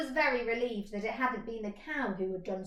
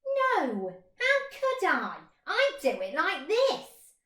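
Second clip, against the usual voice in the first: much higher, quick squeaky hare; 7 semitones higher, 5 dB louder, slower than usual. Acted. Hare answering the mole, high and squeaky.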